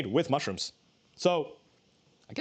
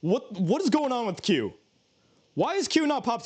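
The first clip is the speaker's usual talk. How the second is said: imitating upset gamer; 8 semitones higher than usual. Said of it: "someone gets upset and goes".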